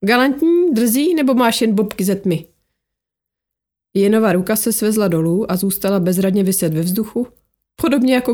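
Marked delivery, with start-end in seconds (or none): 0.0-2.5 snide remark. Acted. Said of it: "zatěla jízlivou poznámku".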